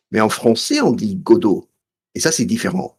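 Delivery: French pronunciation, Godot as go-DOH; speaking French. Shown as a demonstration. Explaining the play's name to co-host, in French. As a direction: switch into French. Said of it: "Something in French".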